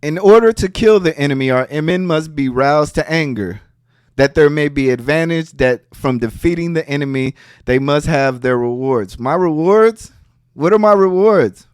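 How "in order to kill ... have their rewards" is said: measured, lower-pitched book reading; formal reading. Acted. Streamer reads a war maxim to viewers, formal reading. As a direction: read the passage out evenly, pitch settling lower.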